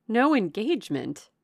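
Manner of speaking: loud, swooping echo; astonished. A narrator's reading. Elder sister hearing there was no engagement, astonished. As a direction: repeat it in disbelief.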